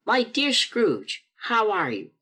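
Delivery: a passerby greeting him kindly; friendly passerby greeting. Acted. A hint of a cheerful stranger's greeting.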